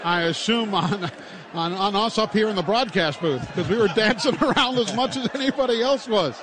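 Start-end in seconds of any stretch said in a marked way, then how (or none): 3.5-6.3 laughing. Real, not acted. Laughing about dancing in booth.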